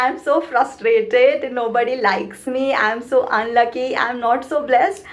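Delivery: same complaints said lightly, smiling; with a smile. Shown as a demonstration. Coach showing complaints said through a smile, light. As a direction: smile through the gloomy words. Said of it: "If I talk like this with a smile".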